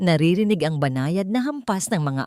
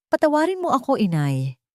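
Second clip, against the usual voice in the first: higher, mild sobbing plea; 8 semitones higher than usual. A narrator's reading. Son sobbing forgiveness to his mother, tearful. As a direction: beg forgiveness through tears. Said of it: "hikbi ni Caspian".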